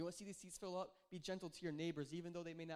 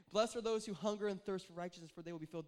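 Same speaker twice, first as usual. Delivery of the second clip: mock faith proclamation; 5 dB louder than usual. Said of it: "like a faith comment".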